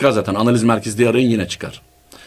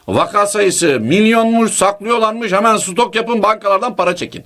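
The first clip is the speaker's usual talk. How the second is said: mock alarmist rumor-monger; 5 semitones higher than usual. Voicing a fake alarm message.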